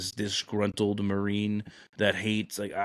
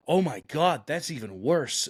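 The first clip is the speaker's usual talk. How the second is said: higher-pitched mock dismay; appalled; 5 semitones higher than usual. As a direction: act out an offended woman's outrage. Offended woman reacts to the Marine.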